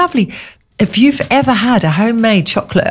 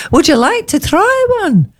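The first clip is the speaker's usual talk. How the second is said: put-on much higher, Scottish chef accent; mock Scottish accent, pitched up; 12 semitones higher than usual. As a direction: imitate the Scottish chef offering eclairs. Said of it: "You sound like Janet from Doctor Finlay's casebook".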